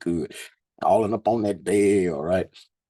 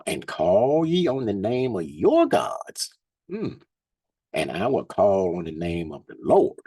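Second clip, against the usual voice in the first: scripture reading. Acted. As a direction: lift the verses up like a preacher. Reads scripture aloud.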